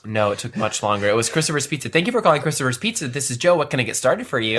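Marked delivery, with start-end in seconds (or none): 1.9-4.6 bright customer-service phone greeting, a bit quicker; faux phone voice. Pizza worker answering calls, lightly done faux phone voice. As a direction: answer the shop phone in your work voice. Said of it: "listen to you with that faux voice".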